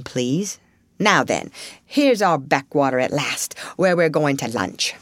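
lightly voiced, firm Rat; dismissive Rat. Rat forbids Mole the Wide World topic, firm dismissal. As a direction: lay it down emphatically, then move briskly on.

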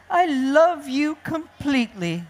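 high, affectionate mother voice; adoring storybook kangaroo; loving declaration. Acted. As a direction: coo it to a new baby. Kangaroo tells chick she loves it.

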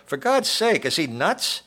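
high, loud outraged shout; man's yell. A narrator's reading. Man in the crowd appalled by the shooter, yelling. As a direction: yell it in disbelief, pitch jumping up. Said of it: "A man yelled".

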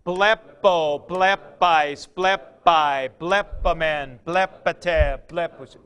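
blepo, blepais, blepai chanted form by form; teacher reciting the endings; recited paradigm. Shown as a demonstration. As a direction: drill it aloud like a teacher. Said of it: "See? That is exactly how it goes".

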